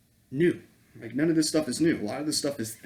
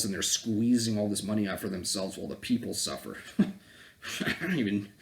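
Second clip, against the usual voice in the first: normal talking voice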